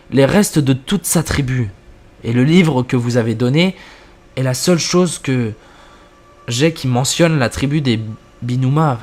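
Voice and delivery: narration posée, plus grave dans les apartés du narrateur; lecture de récit. A narrator's reading. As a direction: lire l'histoire en jouant sobrement les dialogues. Lit une histoire à voix haute. (narration de fiction à voix haute)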